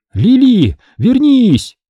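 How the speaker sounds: high loud call after someone. A narrator's reading. Boy calls after the fleeing dog, loud and high. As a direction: call her back as she runs. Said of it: "позвал я".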